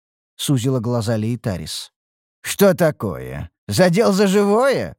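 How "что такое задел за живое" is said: slow, teasing needle; smirking taunt. A narrator's reading. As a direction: draw the questions out with a smirk. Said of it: "усмехнулся я".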